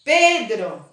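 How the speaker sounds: "Pedro" called with force on "Pe"; calling, stressed syllable. Shown as a demonstration. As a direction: call out "Pedro", leaning on its first syllable. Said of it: "uma que eu chamo com mais força".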